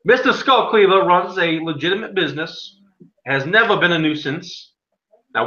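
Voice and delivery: a hint of a pompous judge; lightly voiced small-town judge; stern judge. Game master continues as judge.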